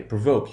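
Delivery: "provoke" with the O as a diphthong, like the letter's name; long O. Shown as a demonstration. Teacher showing the long value, O as in the letter. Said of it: "here we have the long value".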